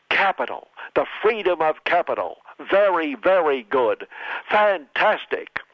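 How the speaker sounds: hammed-up Trump boasting; mock Trump. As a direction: brag like a showman president.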